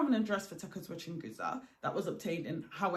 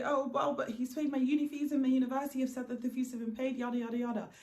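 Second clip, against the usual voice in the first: panicky; 4 semitones higher, faster than usual. Retold or imitated. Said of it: "she starts to panic and say".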